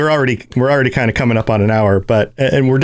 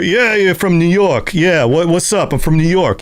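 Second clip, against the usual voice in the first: lightly put-on New York accent, a bit higher; mock New York accent; 4 semitones higher, slower than usual. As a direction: talk like a cocky stock New Yorker. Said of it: "So either, either".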